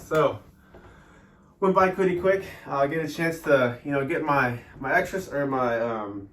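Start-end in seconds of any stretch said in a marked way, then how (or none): 1.6-6.3 breathless after push-ups; catching breath between words. Real, not acted. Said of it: "I'm out of breath".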